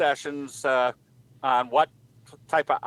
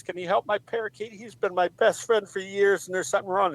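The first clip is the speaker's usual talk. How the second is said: lightly voiced lady, higher and hurried; worried parakeet owner; 6 semitones higher than usual. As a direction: plead with the vet in a raised pitch. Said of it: "lady that brings her parakeet".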